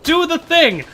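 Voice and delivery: high, loud, frustrated yelling at lazy creators; pleading, drawn-out yell of frustration; exasperated shout. Retold or imitated. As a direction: shout it like you're fed up telling them again. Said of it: "I'm like".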